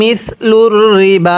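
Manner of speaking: slow chanted মিসলুর রিবা with a held ল; tajweed recitation; Quran recitation. Shown as a demonstration. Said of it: "কিভাবে পড়ব?".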